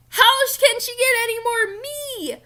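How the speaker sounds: high, loud excited squeal; gushing disbelief. Retold or imitated. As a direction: squeal it like the book just described you. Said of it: "and I'm like".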